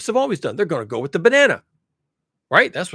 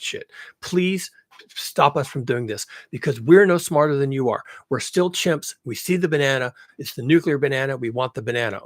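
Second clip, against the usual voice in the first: mock begging executive; 3 semitones lower, 3 dB louder than usual. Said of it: "they're begging on bent knees".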